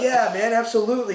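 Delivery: high-pitched, keen yes; retold enthusiastic assurance; eager agreement.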